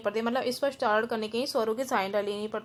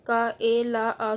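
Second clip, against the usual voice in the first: each sound of "का, ए, ला, आ" said separately; "का, ए, ला, आ" as separate, measured syllables; broken into parts; much slower than usual. Shown as a demonstration. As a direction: spell out "का, ए, ला, आ" piece by piece. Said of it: "ये word लोग अलग-अलग करके भी दिखाया".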